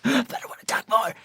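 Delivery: high, small protesting voice; hammed-up high-pitched begging; mock pleading. Acts pleading with failing voice.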